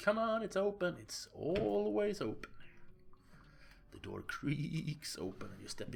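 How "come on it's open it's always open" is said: high, loud call from inside. Acted. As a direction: call out to the visitor. Chuck calls through the door.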